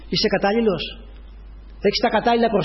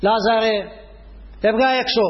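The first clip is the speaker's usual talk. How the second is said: called out; 3 semitones higher than usual. Retold or imitated. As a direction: call him out of the tomb. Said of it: "Φώναξε". (φωνάζοντας δυνατά)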